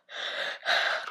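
long, airy tired yawn; real yawn. Real, not acted. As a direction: let out a sleepy yawn mid-thought. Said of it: "I'm so sorry I'm yawning in your ear".

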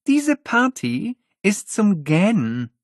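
slow, high bored complaint; bored drawl. Acted. Holly complaining to Miles about the dull party. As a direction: let the boredom drag.

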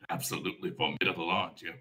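a wry giant compliment; amused Frost Giant. Acted. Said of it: "The Frost Giant".

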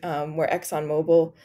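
hoarse, voice giving out; losing voice, slightly raspy. Real, not acted. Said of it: "I'm losing my voice right now".

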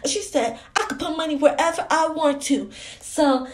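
put-on childlike, chatty explaining voice; little girl. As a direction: talk like a small child telling tales.

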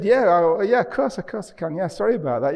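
high, loud, apologetic rush to agree; re-enacted eager assent; effusive retold agreement. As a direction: act out an editor hurriedly saying yes. Acting editor's hasty agreement on phone.

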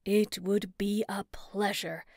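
slow, relishing villain; gloating witch voice. A narrator's reading. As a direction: savor each word cruelly.

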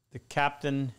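tripping over his words; stammering, stuck on words; stuttering. Real, not acted. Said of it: "Moose, I was stuttering".

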